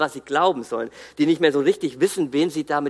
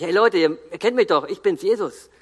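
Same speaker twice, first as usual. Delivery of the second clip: breezy, chummy "hey guys, it's me", pitched up and louder; casual greeting; 4 semitones higher, 5 dB louder than usual. Pretend. Preacher mocking a too-casual Jesus, chummy and breezy. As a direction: toss it off like greeting old friends. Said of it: "dann sagt er nicht".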